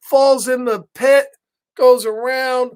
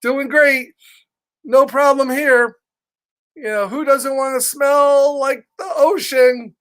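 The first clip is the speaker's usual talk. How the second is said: forced cheerfulness; 5 semitones higher than usual. Acted. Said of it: "He goes".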